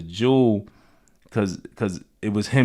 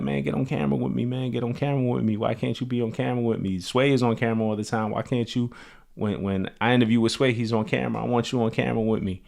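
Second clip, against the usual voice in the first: imitating insistent nagging, higher pitch; pestering friend; 4 semitones higher than usual. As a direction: keep badgering, in a retold quote. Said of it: "he always used to bug me".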